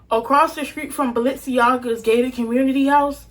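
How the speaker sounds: slow down so each word is clear. Real, not acted. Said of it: "Let me talk slower".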